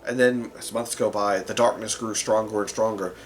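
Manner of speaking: dramatic fantasy storyteller, with weighted pauses; story narration. Acted. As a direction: tell the heroes' fall in measured phrases. Narrates a dark fantasy backstory.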